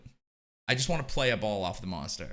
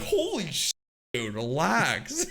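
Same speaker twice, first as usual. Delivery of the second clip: mock teammate alarm; 5 semitones higher, much slower than usual. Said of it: "Someone's be like".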